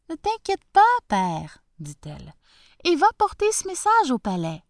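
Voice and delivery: high, quick reassurance; reassuring daughter. Acted. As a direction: comfort your father brightly.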